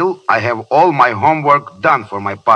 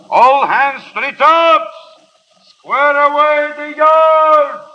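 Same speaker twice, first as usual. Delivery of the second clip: slow, much higher, louder bellowed commands; shouted orders; 13 semitones higher, 5 dB louder, slower than usual. Acted. Ship's mate bellowing orders to the crew, slow loud shout. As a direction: call it across the whole deck.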